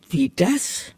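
suspicious. Acted. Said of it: "fragte die alte Maus misstrauisch".

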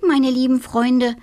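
little witch warmly calling her friends; grateful little witch. Acted. (kleine Hexe, laut und dankbar)

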